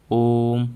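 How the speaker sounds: ओम with the vowel held long; teacher modelling ओम; drawn-out ओम. Shown as a demonstration. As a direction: hold the ओ in ओम. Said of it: "बीच में ऐसा आकार".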